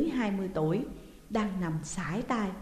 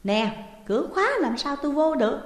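calling out; 7 semitones higher, 5 dB louder than usual. A narrator's reading. Calling through locked door.

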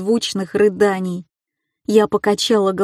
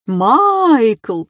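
calling out; 3 semitones higher, 4 dB louder than usual. A narrator's reading. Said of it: "раздался третий голос".

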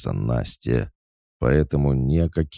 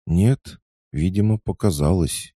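high, louder squeaky backpedal; frightened squeak; 9 semitones higher, 5 dB louder than usual. A narrator's reading. Girl backing down before two angry friends, frightened squeak. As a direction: squeak it out, cowed. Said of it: "испуганно пискнула Игнатьева".

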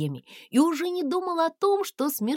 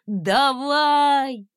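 louder push of effort; straining urge; 4 semitones higher, 6 dB louder than usual. A narrator's reading. Cat straining to push the dragon up.

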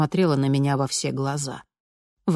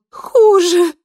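much higher, louder cry of despair; desperate cry; 10 dB louder than usual. A narrator's reading. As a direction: blurt it out in despair. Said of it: "с отчаянием в голосе". (отчаянный крик, гораздо выше и громче)

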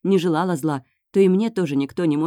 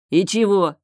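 growl; 4 semitones higher, 4 dB louder than usual. A narrator's reading. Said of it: "рычит он".

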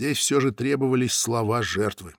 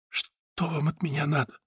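muffled; 3 semitones higher, 7 dB quieter than usual. A narrator's reading. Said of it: "Голос из-под одеяла был глухим".

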